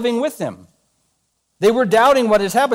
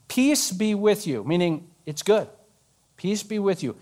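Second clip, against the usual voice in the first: gentle reassurance; 6 dB quieter than usual. Acted. Jesus calming doubting Thomas, softly tender. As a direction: soothe him gently.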